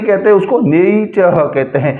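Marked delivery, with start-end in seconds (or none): 0.6-1.3 r-less ending on "नेचर"; final "er" as schwa. Shown as a demonstration. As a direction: say नेचर as "ney-chuh", drawn out. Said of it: "इनको अ पढ़ा जाता है".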